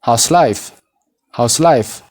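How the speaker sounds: "House life" linked, how-is merged into one syllable; contracted model phrase. Shown as a demonstration. Teacher modelling for learners to repeat, contracted and linked. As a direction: run "House" straight into life, falling at the end. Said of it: "Mee na waliin jedhaa".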